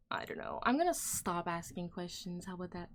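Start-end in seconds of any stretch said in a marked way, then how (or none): 0.1-0.6 whispered. Real, not acted. Whispered aside after sigh.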